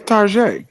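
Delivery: "Tarjay", ending in AY with no hard g or t; mock-French pronunciation of Target. Real, not acted. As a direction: say "Tarjay" as tar-ZHAY. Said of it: "we say Tarjay".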